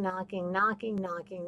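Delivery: knocking trailing off into a hush; fading knocks. Shown as a demonstration. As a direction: let knocking fade away like a knock down the hall. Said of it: "God is knocking".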